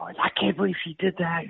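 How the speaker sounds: high mock fuming husband; a touch of an upset husband venting; mock angry husband. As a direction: lightly play the husband's outrage. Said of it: "The guy was so mad at his wife".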